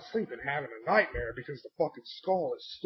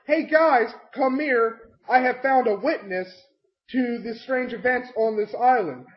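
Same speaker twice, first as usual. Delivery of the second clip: measured announcement; 5 semitones higher than usual. Retold or imitated. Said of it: "Riff should have been like".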